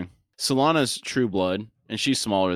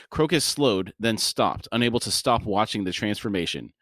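measured audiobook-style reading; story narration. A narrator's reading. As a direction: read the scene aloud in deliberate phrases. Reads the novel aloud.

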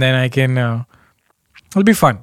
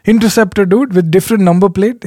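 higher, eager questioning; curious fan voice; 5 semitones higher than usual. Retold or imitated. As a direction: imitate a nosy fan asking. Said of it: "They're like".

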